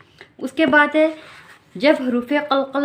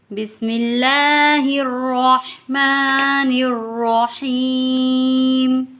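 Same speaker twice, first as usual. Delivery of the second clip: slow, drawn-out, chanted recitation; slow, chanted Arabic recitation; Quranic recitation; 4 semitones higher, much slower than usual. Acted. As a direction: intone it slowly like tilawat. Recites opening formula.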